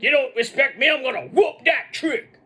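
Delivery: high mock wrestler's rant, slowing at the end; imitated yelling. Retelling Trick berating people backstage, mock yelled threat. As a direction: holler a threat as the angry wrestler. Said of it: "yelling at various people along the way".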